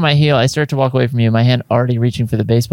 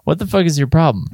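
mock bark; 4 semitones higher than usual. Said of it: "I bark".

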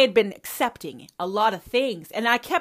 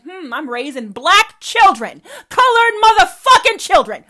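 rising into a high, loud mocking voice; mock self-reflection; 9 semitones higher, 12 dB louder than usual. Daughter voices her mother realizing the truth, mocking and loud. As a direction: play the mother waking up to it, mockingly. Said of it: "be like".

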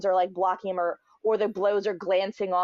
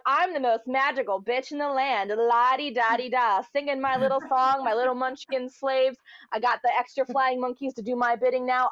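a lightly voiced, higher prissy queen; smug Glinda; 4 semitones higher than usual. Glinda gloating on her throne, lightly hammed smugness. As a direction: preen like the only witch with magic.

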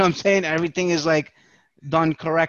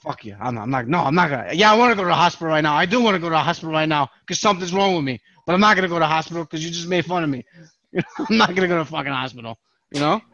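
indignant rant; much faster than usual. Retold or imitated. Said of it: "I'm like".

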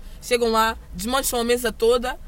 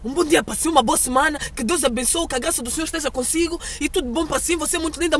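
a hint of Brazilian accent, higher and louder, effusive; Brazilian customer; 6 semitones higher, 3 dB louder than usual. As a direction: gush like a friendly Brazilian customer. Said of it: "brasileiros que ainda me dão aquele". (um toque de sotaque brasileiro, caloroso e efusivo)

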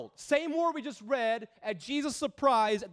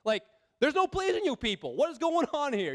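acted exasperation, pitch climbing on the complaints; fed up, as if rolling your eyes; exasperated; 3 semitones higher than usual. Preacher voicing Jesus fed up with impossible people, exasperated. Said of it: "shaking his head and rolling his eyes".

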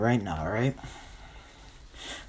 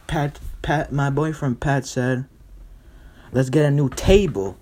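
higher-pitched nervous cover story; Joanna; 4 semitones higher, 3 dB louder than usual. Acted. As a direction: talk the neighbor round, a bit too keenly. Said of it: "Joanna's like".

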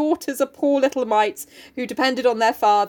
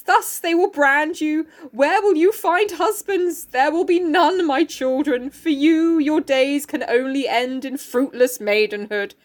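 dramatic play reading; 3 semitones higher, slower than usual. Acted. Reads Oedipus's speech from the play.

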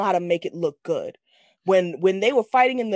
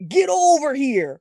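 loud, drawn-out catchphrase, pitched up; mimicked battle cry; 5 semitones higher, 5 dB louder, slower than usual. Fan quoting a favorite movie line, mimicked battle cry. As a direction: belt it out like a game catchphrase. Delivering the iconic game catchphrase.

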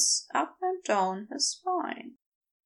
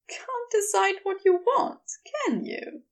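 gently teasing, fondly amused; warm fond amusement; 7 semitones higher than usual. A narrator's reading. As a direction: tease a loved one warmly. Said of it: "his voice warm with fond amusement".

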